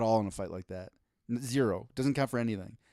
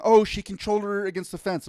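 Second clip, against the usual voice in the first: pitched up, louder mock fan; mocking whiny fan; 7 semitones higher, 6 dB louder than usual. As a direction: mimic a smug fan, higher and louder. Mocking fans' claims.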